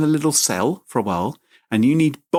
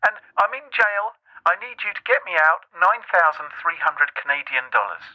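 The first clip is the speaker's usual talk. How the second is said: higher, eager fake grandson; imitating the scammer; 5 semitones higher than usual. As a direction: grab the chance, play the grandson. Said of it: "And he said".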